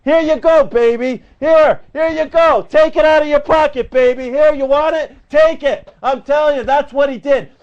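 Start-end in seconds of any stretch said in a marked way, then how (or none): 0.1-5.9 mock presidential handout. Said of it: "what did President Ass do".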